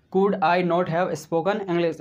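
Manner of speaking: very slow, stretched English; teacher modelling slowly; slow model sentence. Shown as a demonstration. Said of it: "इस तरह से practice कर सकते हैं".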